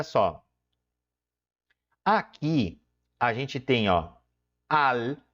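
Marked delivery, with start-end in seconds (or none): 4.7-5.2 "almíbar" split into al, mí, bar with long pauses; syllable by syllable. Shown as a demonstration. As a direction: break "almíbar" into three separate syllables. Découpe le mot en syllabes.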